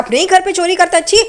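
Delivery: quick rebuke with mock disgust; disgusted scolding. Sachin shames Tejas for stealing at home, acted disgust.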